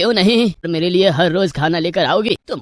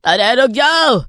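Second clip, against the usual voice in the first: put-on an old man's mild cry after a fleeing thief; calling after her; 2 semitones higher, 3 dB louder than usual. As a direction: shout after the thief as she runs. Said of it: "बूढ़ा भिखारी पीछे से चिल्लाता रहा".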